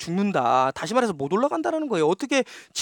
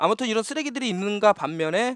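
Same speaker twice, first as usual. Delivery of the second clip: ordinary talk, nothing marked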